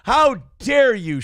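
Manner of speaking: theatrical pretend offence; mock outrage. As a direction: play scandalised and drag it out. Mock outrage at a fan's comment.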